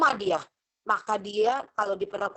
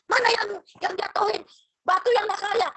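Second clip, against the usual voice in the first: much higher coaxing mother voice; comforting mother; 10 semitones higher, 4 dB louder than usual. Retold or imitated. Mother coaxing a fallen child, high and louder. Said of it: "Jangan kamu bilang".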